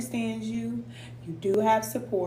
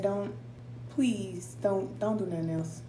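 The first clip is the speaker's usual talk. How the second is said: quiet pleading; 7 dB quieter than usual. Retold or imitated. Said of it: "But I said".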